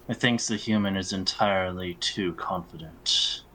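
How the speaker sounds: measured, understated disdain; cool condescension, spoken evenly; haughty elf. Acted. Elf repeating the remark to Air, coolly haughty.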